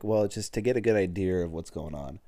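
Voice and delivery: lightly voiced Boston accent; Boston "idear" with an added r; retelling a Boston-accented teacher; imitated Boston teacher. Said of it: "with the Boston accent".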